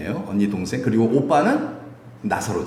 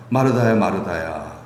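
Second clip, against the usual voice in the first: earnest plea; 4 semitones lower than usual. Acted. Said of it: "간절히 부탁하는 거예요".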